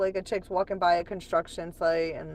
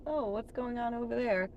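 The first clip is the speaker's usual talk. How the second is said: higher-pitched, suddenly sidetracked voice; acted distraction; 7 semitones higher than usual. Streamer mimics her own ADHD, high distracted voice. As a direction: pitch it up as if losing the thread. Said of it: "That's my A D H D".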